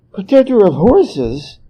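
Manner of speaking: slow, wondering, drawn-out question; dreamy. A narrator's reading. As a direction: savour the title like a dream. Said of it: "said Monkey dreamily".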